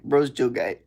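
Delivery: light imitation of a Khabib-style accent. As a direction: slip into a mild Khabib accent. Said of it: "say it like fucking Khabib".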